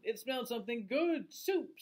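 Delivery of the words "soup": a touch of the skeleton. Acted. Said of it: "said the skeleton to itself".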